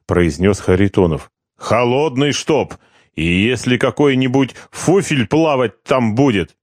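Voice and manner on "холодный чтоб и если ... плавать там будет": lordly demand. Acted. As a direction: lord it over the prisoner. Corporal orders the foreman.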